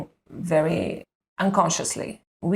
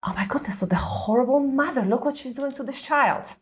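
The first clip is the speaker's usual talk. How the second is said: a hushed, disapproving aside, partly whispered; judgmental whisper; 5 semitones higher than usual. Retold or imitated. Young mother judging a stranger's tantrum parenting, hushed and disapproving. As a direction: mutter a harsh verdict on a stranger, half under the breath.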